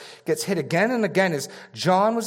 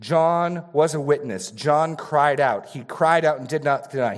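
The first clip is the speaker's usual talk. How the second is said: deliberate sermon emphasis on "John cried out"; emphatic preaching. Shown as a demonstration. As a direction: press each word like a preacher making a point. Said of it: "are you getting the emphasis?".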